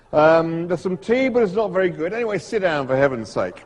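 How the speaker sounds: put-on irascible host in a rough Australian accent; Struan Sutherland, Australian accent. Snake expert to unwanted visitors, fussing in an Australian accent. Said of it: "my Australian accent isn't very good".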